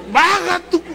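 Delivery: high, loud laughing plea; mock urgent plea. Telling the pastor to lower horn.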